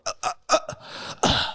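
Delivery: short voiceless grunts, spaced out; staged climax noises; faked grunts. Recruit just committing for the instructors, faked grunting. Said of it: "just get 'em off your ass".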